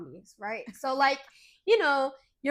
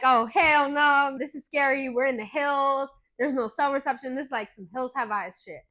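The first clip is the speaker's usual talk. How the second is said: freaked-out panic; 4 dB louder than usual. Retold or imitated. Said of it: "I'm really freaking out".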